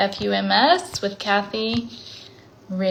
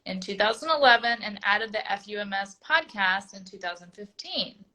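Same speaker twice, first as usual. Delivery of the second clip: measured, prepared read-aloud; reading a bio aloud. Real, not acted. Host introduces her guest by reading her bio, reading aloud. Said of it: "I'm going to read your bio".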